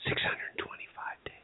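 whispered, hushed and ominous; dramatic whisper. Acted. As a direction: breathe the number like a secret. Repeats the count in a hush.

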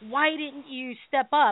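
slow, accusing question in mock complaint; retold reproach. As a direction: imitate a friend's drawn-out reproach. Quotes friend's accusation on ride home.

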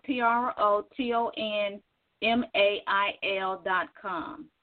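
slow letter-by-letter spelling. Real, not acted. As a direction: spell each letter slowly. Spelling domain.

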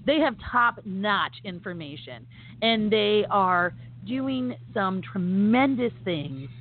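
slowed, each word laid down; slow emphasis. Shown as a demonstration. Host breaking it down for listeners, slow and deliberate. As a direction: spell it out slowly so it sinks in. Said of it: "Let's just break it down".

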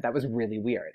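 soft, sinking self-aware aside; embarrassed admission. Retold or imitated. Fan admitting an odd remark to Taylor, quietly embarrassed. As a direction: own up to it under your voice.

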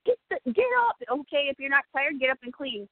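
mother's order. Retold or imitated.

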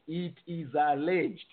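slow, deliberate weight on "alleged"; stress on ALLEGED. Real, not acted. Panelist repeats disclaimer about the sale rumour, stressing "alleged". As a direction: underline "alleged" with a slow, falling emphasis. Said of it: "Underline the word alleged".

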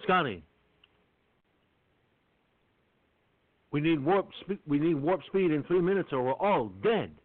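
cheesy Kirk. Retold or imitated. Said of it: "cheesy ass impression of, uh, Bill Shatner".

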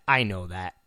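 dropped low and soft, I know that; low answer. Acted. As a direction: answer yourself under the breath.

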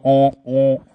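"oh, oh" as two drawn open vowels; demonstrated vowel sounds. Shown as a demonstration. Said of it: "two sounds that go".

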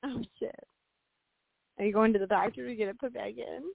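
normal talking voice

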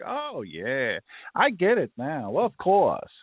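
put-on drawn-out Brooklyn Jewish accent, rising in pitch. Listener finally catching on, in a Brooklyn Jewish accent. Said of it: "You don't have to use that accent when you think".

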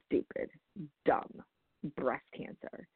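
retold angry verdict. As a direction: pause after "Stupid" and "dumb", muted mock anger. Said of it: "he was really angry".

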